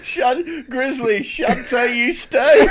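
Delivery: campy drag queen. Pretend. Drag queen voice after drag remark.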